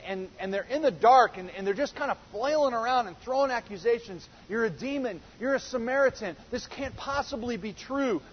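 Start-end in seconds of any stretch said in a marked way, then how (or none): 4.5-8.2 accusing crowd. Retold or imitated. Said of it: "The Jews say to him".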